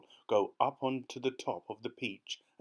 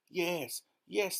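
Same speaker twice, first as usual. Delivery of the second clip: much higher, eager agreement; chorused assent; 8 semitones higher than usual. A narrator's reading. Everyone ready to go upstairs, chorusing eagerly. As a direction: agree all together, keenly. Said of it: "they chorused".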